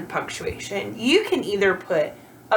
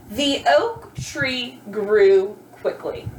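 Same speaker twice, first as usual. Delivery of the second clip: slow example reading; 2 semitones lower, much slower than usual. Shown as a demonstration. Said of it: "Does that make sense".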